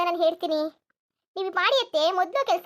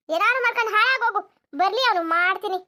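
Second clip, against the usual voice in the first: acted huffy threat; mildly angry. Mother-in-law dismissing daughter-in-law, mildly angry. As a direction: give up on her in a mild temper. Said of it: "ಸರಿ ಕೋಪ ಮಾಡ್ಕೊಂಡು ಹೋಗ್ಬೇಡಿ".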